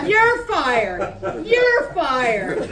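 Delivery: heated repetition; angry repeating. Acted. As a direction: hammer it twice. Shouting match continues.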